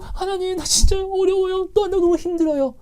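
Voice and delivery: imitating an anguished prayer, high and pleading; desperate plea. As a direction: cry out to God in anguish. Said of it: "간절히 부를 수밖에 없거든요".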